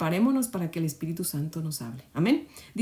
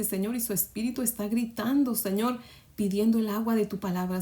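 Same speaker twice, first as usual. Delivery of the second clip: fervent spoken prayer with rising appeals; heartfelt devotional prayer that swells on each request; earnest prayer. Real, not acted. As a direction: pray aloud, pleading with the Lord. Opening prayer led aloud.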